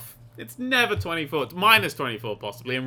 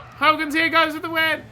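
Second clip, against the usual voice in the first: announcer voice; 12 semitones higher, 5 dB louder than usual. Pretend. Playful commentary voice.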